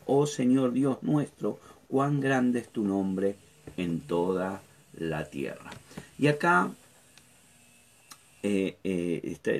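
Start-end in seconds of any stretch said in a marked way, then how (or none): 0.1-5.7 solemn reading. Shown as a demonstration.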